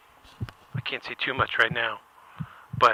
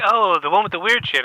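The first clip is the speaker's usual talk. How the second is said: Brian's voice; 7 semitones higher, 10 dB louder than usual. Retold or imitated. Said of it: "He's like".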